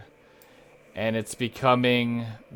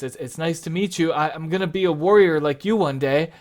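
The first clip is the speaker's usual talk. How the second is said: fast, higher, lightly stammering youngster; nervous boy; 4 semitones higher, 4 dB louder, faster than usual. Acted. Boy meeting his heroes, a bit nervous. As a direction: rush it out with a touch of nerves. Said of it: "he's kinda nervous".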